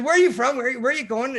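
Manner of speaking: high, loud, cheery questions; friendly operator. Retold or imitated. Chilean operator asking the sailor where he's from, bright and high. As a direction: ask brightly.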